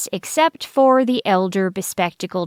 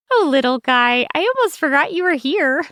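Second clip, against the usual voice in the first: put-on high cheerful child voice; 7 semitones higher, faster than usual. Character speaks to pet.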